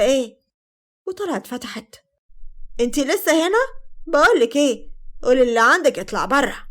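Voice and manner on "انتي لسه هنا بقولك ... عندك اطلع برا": a touch of angry impatience, slightly raised; annoyed confrontation. Acted. Confronting an unwelcome caller at the door, mildly angry.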